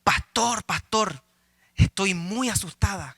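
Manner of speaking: lightly acted worried churchgoer; mildly anxious, retold for a joke; mock frightened. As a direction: plead to the pastor with a touch of fright. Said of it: "asustada vino a conversar con el pastor".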